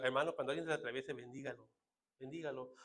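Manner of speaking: low, soft brotherly counsel; hushed saintly self-imitation; mock pious advice. Mimics his own pious advice.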